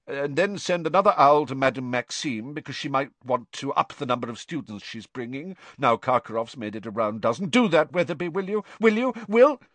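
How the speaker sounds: a mad official's orders spiralling into a shriek; rising frantic raving. Acted. Mad Crouch babbles orders at a tree, climbing to a frantic shriek.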